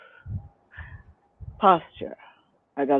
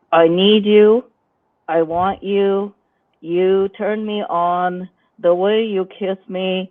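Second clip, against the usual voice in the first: stressed, tight seductive lines; a strained attempt at sexy; tense seduction voice; slower than usual. Shown as a demonstration. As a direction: seduce while holding tension everywhere. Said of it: "So what I'm doing is".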